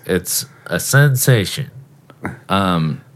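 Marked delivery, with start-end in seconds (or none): 0.1-1.7 pinched-nose commercial announcer; nasal radio ad voice. Pretend. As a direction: hold your nose and pitch the ad. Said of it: "I'm, like, doing the voice and holding my nose".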